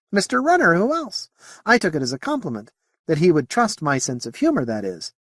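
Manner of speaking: high alien voice, easing down; alien character. Acted. Moti answers Whitbread about Renner, high alien voice.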